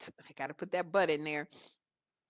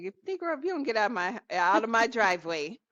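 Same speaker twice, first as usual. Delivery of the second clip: playful tirade at an imagined driver; mock telling-off; 3 dB louder than usual. Homeowner runs an imagined suitor out of the driveway, mock scolding. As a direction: pretend to order someone off your property.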